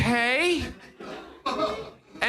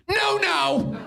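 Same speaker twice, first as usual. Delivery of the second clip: emphatic comic denial; 4 semitones higher than usual. Acted. Comic answer to retold question.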